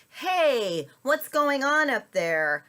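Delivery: loud, high call to a window above. Acted. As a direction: holler up like a puzzled passer-by. People calling up to window.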